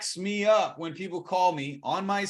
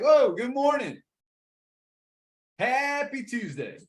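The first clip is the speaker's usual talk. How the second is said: high, exuberant hello, stretched out; high-energy greeting; 8 semitones higher than usual. Shown as a demonstration. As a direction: burst in delighted to be calling. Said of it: "If you come in with that energy".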